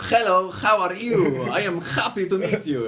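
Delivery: HELLO, HOW, HAPPY each with a rasped "kh", high and loud; hammed-up learner spitting every H; very strong H. Shown as a demonstration. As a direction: shout it with throat-clearing H's. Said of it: "it's very strong".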